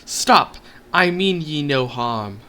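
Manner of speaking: high, loud call to stop. Acted. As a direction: shout it out, then slow down. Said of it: "I called out".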